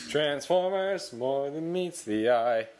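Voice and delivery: slow dramatic trailer announcer; movie trailer voice. Pretend. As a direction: epic trailer narration.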